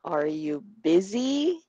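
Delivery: BUSY drawn out and rising; slow question leaning on "busy"; stress on BUSY. Shown as a demonstration. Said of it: "we say it louder".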